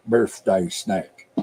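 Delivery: slow Appalachian twang; Appalachian accent. Acted. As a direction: draw it out in Appalachian. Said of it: "That's the accent that was going through my head".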